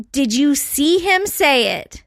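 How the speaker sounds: slow, deliberate acted questioning; measured mock interrogation of children; retold pointed question. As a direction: spell it out slowly, as if grilling kids. Mother questions her boys.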